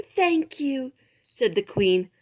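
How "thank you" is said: higher but calmer repeat. Acted. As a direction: repeat the thanks more gently. Queen greets bowing boars.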